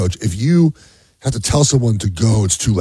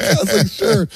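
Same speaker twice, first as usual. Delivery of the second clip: sarcastic sure; 10 semitones higher than usual. Retold or imitated. Sarcastic reply to son.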